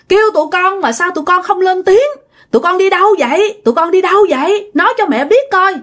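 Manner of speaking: high, anxious scolding mother. Acted. Mother scolds her two children found by the river, high anxious scolding. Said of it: "mẹ của nó mới la".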